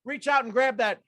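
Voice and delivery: high upbeat coaching calls; hyped exercise leader; energizing coach cue. Acted. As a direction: pump the group up.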